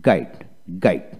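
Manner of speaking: গাইড with G straight into the long I; silent U. Shown as a demonstration. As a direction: model গাইড as one syllable, no U sound. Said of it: "উচ্চারণ হবে". (গাইড, ইউ ছাড়া উচ্চারণ)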